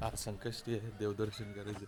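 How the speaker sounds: whispering. Real, not acted. Early morning hushed vlogging.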